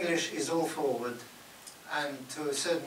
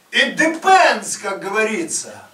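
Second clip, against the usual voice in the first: high, slow, loud Russian voice; Russian businessman; 9 semitones higher, 17 dB louder than usual. Retold or imitated. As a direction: drawl it like a Russian boss. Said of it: "businessman said".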